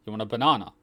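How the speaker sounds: casual Australian question with banana as ba-NAH-na; Australian offering. Shown as a demonstration. Australian showing everyday banana, casual Australian. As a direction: offer a banana, Aussie style. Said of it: "We just say banana".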